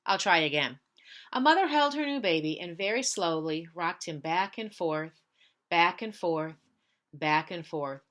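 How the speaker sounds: put-on gentle read-aloud for children; story narration. Teacher reads picture book aloud.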